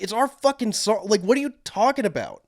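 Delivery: high-pitched mock disbelief; a guitarist, exasperated. Bandmate correcting the singer, mock exasperation. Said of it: "Joe Perry turned to him and was like".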